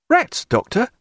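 high-pitched incredulous question; astonished cry. A narrator's reading. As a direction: exclaim it high, taken aback. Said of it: "cried Pullings".

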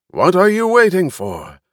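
high, loud ringmaster bellow; booming bellow. A narrator's reading. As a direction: bellow it across the arena. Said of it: "In a booming voice, Rainvar bellowed".

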